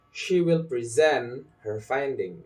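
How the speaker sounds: "present" stressed on the second syllable; stressed verb PRESENT. Shown as a demonstration. Teacher models a practice sentence, second-syllable stress on "present". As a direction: lean on SENT in "present". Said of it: "practicing like this".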